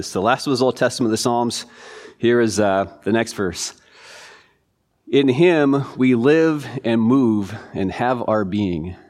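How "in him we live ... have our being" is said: very slow, each word weighed out; slow scripture reading. Acted. Pastor reading a quiz verse to his class, very slow and solemn. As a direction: read it out to the class, slowly and deliberately.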